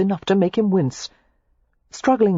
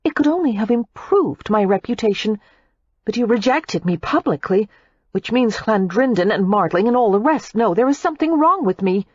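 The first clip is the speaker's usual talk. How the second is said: higher, heated retort; Daisy retorting; 5 semitones higher than usual. A narrator's reading. Daisy retorts to Matthew about her reputation. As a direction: argue her wounded pride. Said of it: "Daisy retorted".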